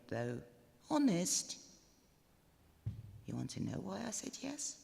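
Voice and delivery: a bride giddily spilling her diary secrets; bride Emily's diary voice. Acted. Emily confides her diary to the listener, lightly girlish. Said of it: "what our bride, Emily, wrote in a diary".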